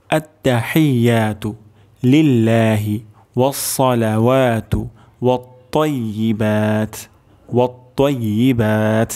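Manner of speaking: slow, measured recitation of the phrase; careful full recitation. Shown as a demonstration. Teacher recites the full phrase for students, measured. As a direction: recite it clearly for students to copy. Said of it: "সম্পূর্ণ উচ্চারণ করছি আরেকবার".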